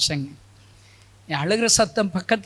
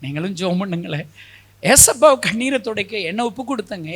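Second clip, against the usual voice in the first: ordinary talk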